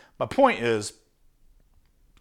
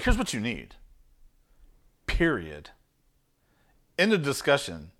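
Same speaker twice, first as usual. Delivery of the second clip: firm, no wiggle room; 3 semitones lower, 3 dB quieter than usual. Shown as a demonstration. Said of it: "that's how it needs to be delivered".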